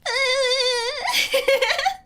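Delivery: high wailing laugh-cry; hammed-up crybaby wail; mock sob. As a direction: fake a childish blubbering wail. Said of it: "And I'd be like".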